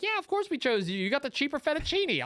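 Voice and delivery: high-pitched, eager retold reply; emphatic assurance. Diners reassuring the restaurant guy, emphatically. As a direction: re-enact stating the obvious excitedly.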